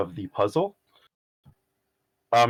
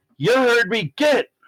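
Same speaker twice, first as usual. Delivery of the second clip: high, loud yell. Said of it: "someone yell".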